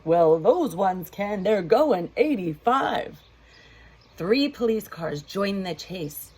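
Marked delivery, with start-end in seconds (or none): 0.0-3.2 louder, slowed sheriff call; sheriff yelling. Acted. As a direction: insist loudly they really can. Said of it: "Sheriff yelled".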